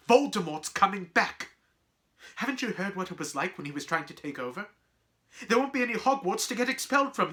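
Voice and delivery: high, loud, fast tirade; impassioned shouting. Acted. Boy convincing friends of the danger, heated shouting. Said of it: "Harry shouted".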